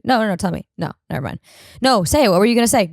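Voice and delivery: half-shouted pleading quote; mock argument. Retelling an argument with her boyfriend, mock shout.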